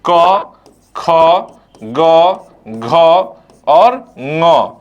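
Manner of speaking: each letter said alone with long pauses; letters spaced out. Shown as a demonstration. Teacher reciting the alphabet to students, slow and spaced. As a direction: recite क ख ग घ ङ slowly, one by one. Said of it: "क से शुरू होता है व्यंजन".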